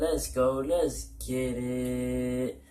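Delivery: loud energetic channel opener; hyped intro. Real, not acted. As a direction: pump up the viewers.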